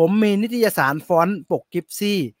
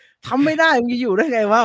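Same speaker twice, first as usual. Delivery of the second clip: harsh boss; 7 semitones higher, 4 dB louder than usual. Retold or imitated. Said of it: "ตอนนั้นผมค่อนข้างร้อนแรง".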